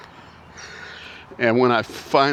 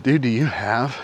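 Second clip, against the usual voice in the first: out of breath. Real, not acted. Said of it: "I'm sorry I'm out of breath".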